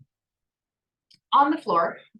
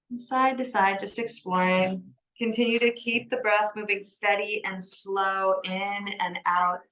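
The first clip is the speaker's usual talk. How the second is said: calm, measured yoga-teacher cueing; guided yoga; 2 semitones lower than usual. Acted. Yoga teacher settling a class into breath and movement, calm guidance.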